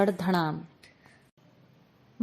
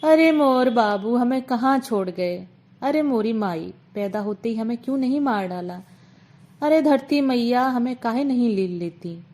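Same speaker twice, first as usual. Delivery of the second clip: mild wailing lament. Acted. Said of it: "डकरा कर रो पड़ी".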